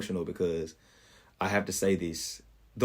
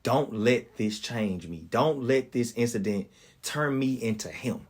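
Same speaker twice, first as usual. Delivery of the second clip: slow pleading prayer; slower than usual. Retold or imitated. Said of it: "the only thing I could ask God for was".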